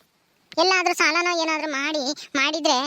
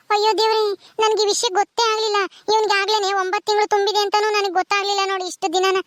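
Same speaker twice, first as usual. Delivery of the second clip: higher-pitched exclaiming; dismayed surprise; 4 semitones higher than usual. Acted. Woman admitting she never knew of the matter, dismayed surprise. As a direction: exclaim as if only now finding out.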